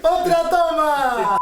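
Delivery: slow laughing shout. Real, not acted. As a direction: call out through laughter. Shouting another take.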